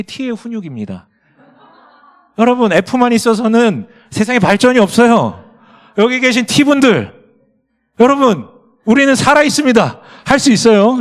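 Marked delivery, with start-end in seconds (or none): 2.4-11.0 loud, high orator's shout; rally the crowd like a hammed-up campaign speech; belted-out, playful proclamation; mock rallying cry.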